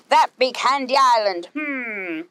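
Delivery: a hint of a pirate growl; mild mock growl ending in a hum. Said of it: "he growled".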